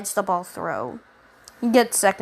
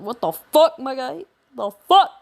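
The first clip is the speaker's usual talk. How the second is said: shocked classmates; 4 semitones higher than usual. Retold or imitated. Shocked classmates in retold story.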